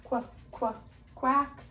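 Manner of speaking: a hint of duck quacks; light quacking. Ducks quacking again when the quilt comes down. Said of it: "they quacked".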